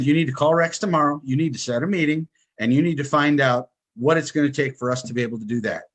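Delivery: wife takes charge and gives firm orders, commanding; taking control. Retold or imitated. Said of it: "she, she took control".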